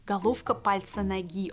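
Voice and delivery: головка read as a literal word; mistranslated sign read out. Shown as a demonstration. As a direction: read Головка пальца ноги plainly as written. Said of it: "It says".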